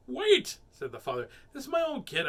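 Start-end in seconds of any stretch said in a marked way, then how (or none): 0.1-0.6 high, loud interruption; alarmed protest. A narrator's reading. Father objects to paying. 1.5-2.3 high, loud protest; indignant father. A narrator's reading.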